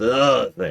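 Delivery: heavy emphasis on the word "the". Giving a line-reading direction: strong stress on the. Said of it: "I need you to emphasize the the in that sentence, like this".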